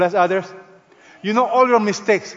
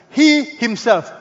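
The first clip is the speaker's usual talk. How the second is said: "He himself" slow and raised, both words stressed; emphatic; 4 semitones higher, 4 dB louder, much slower than usual. Shown as a demonstration. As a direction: punch "He himself" high and slowly. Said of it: "It is used in the emphatic sense".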